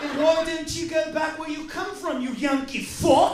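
hammed-up English waiter snapping back; English waiter accent. Waiter in England telling off tourists, mock English accent. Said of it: "the waiter was like".

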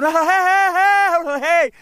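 loud, high repeated hey, hey in a different voice; high shouting hey, hey, hey, hey; retold shout. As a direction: keep yelling to get his attention. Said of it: "He's gone".

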